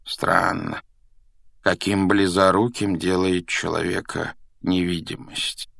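slow, measured remark; musing old professor. Acted. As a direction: muse unhurriedly, lightly voiced professor. Old professor muses to the boy.

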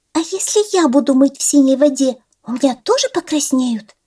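high squeaky chick voice; peeping baby chick. Acted. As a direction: ask like an eager little chick. Chick asks the gosling.

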